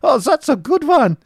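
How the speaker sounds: very high, loud, laughing voice; tickled laughter. A narrator's reading. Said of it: "quite tickled".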